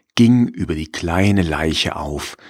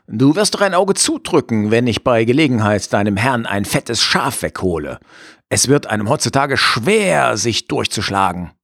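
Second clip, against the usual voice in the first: higher, sly wolf voice; 3 semitones higher than usual. Acted. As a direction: coax like a cunning wolf. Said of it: "sagte er".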